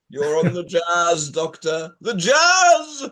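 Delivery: slow, building to a loud high shout; Mister T impression. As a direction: bark it like Mister T. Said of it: "doing Mister T".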